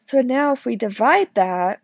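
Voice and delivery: talking through a yawn; words stretched by a yawn. Real, not acted. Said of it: "I'm definitely yawning through this video".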